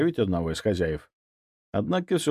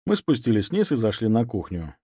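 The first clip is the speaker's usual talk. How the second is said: ordinary delivery, nothing marked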